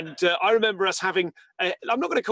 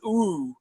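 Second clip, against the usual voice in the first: crowd "ooh". Shown as a demonstration. Host showing the audience a reaction, modelled "ooh". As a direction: show the audience how to ooh. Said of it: "Would you like it if we all went".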